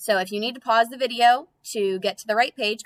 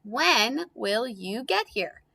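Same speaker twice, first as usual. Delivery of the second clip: slow reading; 3 semitones higher, slower than usual. Shown as a demonstration. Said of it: "last sentence".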